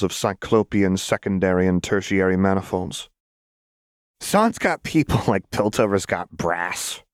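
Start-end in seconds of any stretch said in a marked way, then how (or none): 4.2-7.0 put-on laughing through the line like a mad girl; giggling manic taunt; shrill laugh. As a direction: cackle the words out. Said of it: "Jinx said with a shrill laugh".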